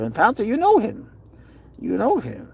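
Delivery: high, cooing reproach; pet talk. Real, not acted. Owner tells cat it knows the friend, high cooing.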